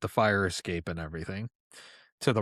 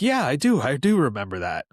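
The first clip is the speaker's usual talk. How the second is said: high-pitched, louder quote of mom; imitating mom's reply; 4 semitones higher, 5 dB louder than usual. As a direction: voice mom's emphatic yes, pitched up. Mother's answer acted out in retelling.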